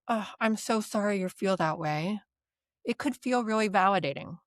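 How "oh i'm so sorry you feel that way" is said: mean every word of it kindly; genuine, compassionate. Shown as a demonstration. Therapist showing a sincere apology to a client, gently. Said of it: "in a genuine, compassionate tone of voice".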